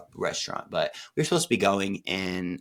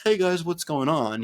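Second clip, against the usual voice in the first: high, louder bubbly hello; cheery greeting; 10 semitones higher, 4 dB louder than usual. Pretend. Pretending to pop in on family for the holidays, high and cheery. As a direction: bounce in like nothing's wrong.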